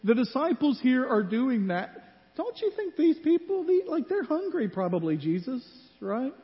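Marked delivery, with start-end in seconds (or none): 2.4-5.2 raised rhetorical plea. Acted. Preacher excited rhetorical aside.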